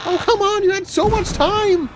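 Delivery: very high, loud squealing protest; exasperated yell. Real, not acted. Player protesting that the guards had so much time, in an exasperated high yell. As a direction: cry out in outraged frustration.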